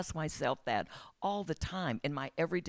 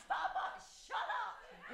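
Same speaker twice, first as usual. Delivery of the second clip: laughing at the TV; 13 semitones higher, 15 dB quieter, slower than usual. Retold or imitated. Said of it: "I was screaming at the T V".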